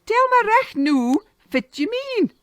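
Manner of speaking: high, loud, impatient demand; angry demand. Acted. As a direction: bark at the boy to explain. Moneylender shakes stick, demanding.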